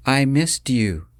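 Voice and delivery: too loud. Acted. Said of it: "Her voice was too loud".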